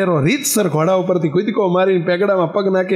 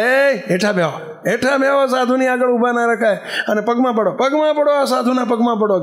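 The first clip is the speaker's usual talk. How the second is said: high, insistent retold command; urgent mock command, pitched up; acted gang leader's order; 5 semitones higher than usual. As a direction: lightly play a leader ordering his men. Bandit orders his gang to sit.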